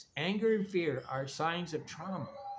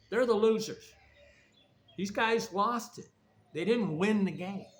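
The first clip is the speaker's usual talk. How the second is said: Eric's blunt lecture, raised and fast; imitating a harsh rant; 2 semitones higher than usual. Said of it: "then Eric just goes".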